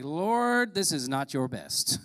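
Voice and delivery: exasperated prayer, drawn out; exasperated plea. Acted. Complaining to God in story.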